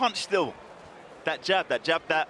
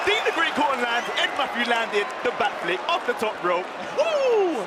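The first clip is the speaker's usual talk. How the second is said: wrestling commentator; 9 semitones higher than usual. Real, not acted. Backflip off ropes, commentator erupts.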